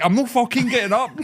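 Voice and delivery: high-pitched retold outburst with laughter; mock aggressive refusal. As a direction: act out a stubborn refusal, half laughing. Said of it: "Why are you being so aggressive?".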